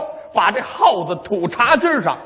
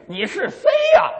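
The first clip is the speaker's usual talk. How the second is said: father asking; 12 semitones higher than usual. Acted. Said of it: "随口问一句".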